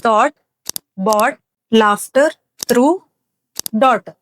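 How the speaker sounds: "ಥಾಟ್, ಬಾಟ್, ಲಾಫ್ಟರ್, ಥ್ರೂ, ಡಾಟರ್" with no g sound; word-list demo, "ಲಾಫ್ಟರ್" with f, no g anywhere; silent G. Shown as a demonstration. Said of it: "ಯಾವ ತರ pronounce ಮಾಡ್ತೀವಿ ನೋಡೋಣ". ("ಥಾಟ್, ಬಾಟ್, ಲಾಫ್ಟರ್, ಥ್ರೂ, ಡಾಟರ್" ಗ ಶಬ್ದ ಇಲ್ಲದೆ)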